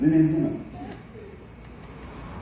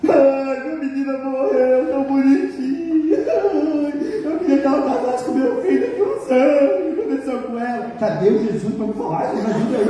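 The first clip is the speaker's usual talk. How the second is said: laughing mock wail; 9 semitones higher than usual. Preacher parodies the grieving mother, wailing through laughter. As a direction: ham up the grief until you crack up.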